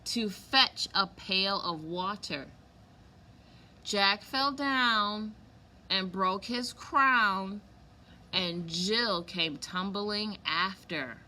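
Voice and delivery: slow, sing-song nursery reading; reading a rhyme to kids. A narrator's reading. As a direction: read the rhyme slowly to little ones. Reads the poem to children.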